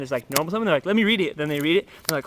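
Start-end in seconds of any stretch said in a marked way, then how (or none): 0.9-1.4 mock demand. Opponent demanding to read card.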